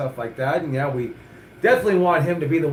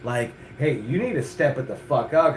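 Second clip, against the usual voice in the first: whip-cracking coach. Retold or imitated. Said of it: "cracking the fucking whip and saying".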